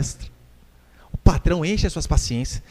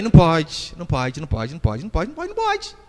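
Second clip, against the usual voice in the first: repetitive nagging; 4 semitones lower than usual. Retold or imitated. Parent repeats it every time, mock ineffectual nagging. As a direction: repeat it in an unbroken string, ineffectually. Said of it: "Ele fica toda vez".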